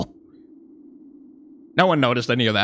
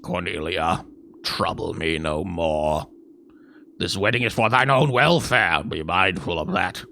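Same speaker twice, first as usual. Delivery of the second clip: low stern king; 7 semitones lower, 3 dB quieter than usual. Acted. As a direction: lay down the law like a king. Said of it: "Guys, just improvise".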